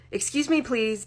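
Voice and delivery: high, firm teacher's request; stern teacher voice. A narrator's reading. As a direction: squeeze past with teacher authority. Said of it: "in her stern teacher voice".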